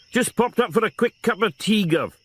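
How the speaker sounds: light sing-song Welsh lilt, high and oozing sincerity. A narrator's reading. Welsh sing-song lilt, high. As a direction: Welsh constable sweet-talking his boss in sing-song. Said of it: "in his oozing with sincerity, sing-song Welsh voice".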